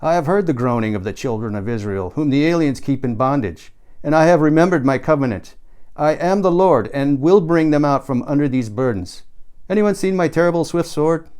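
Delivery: mock Old Testament God. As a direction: preach it like a hammy deity. Lauren as God quoting scripture.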